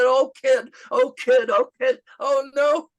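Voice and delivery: high, loud mock howl of hilarity; wailed through imitated laughing fit; imitating helpless laughter. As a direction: act out laughing till you cry. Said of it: "He laughed so hard he was crying".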